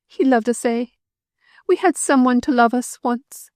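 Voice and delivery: high, grief-stricken lament; grieving. A narrator's reading. Widow mourning her drowned husband, grieving. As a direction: mourn him aloud.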